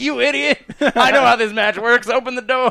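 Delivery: shrill, very loud, high-pitched yelling. Retelling a wrestler yelling at the referee: imitating a yell. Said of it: "yelling at the referee".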